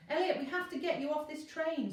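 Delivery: high, loud frantic scream. A narrator's reading. Virgo screaming at Elliot on the runaway train, frantic. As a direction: yell it in panic over the train noise. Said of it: "screamed Virgo".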